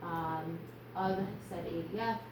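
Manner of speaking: panting after running upstairs; breathless, catching her breath. Real, not acted. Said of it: "I'm out of breath".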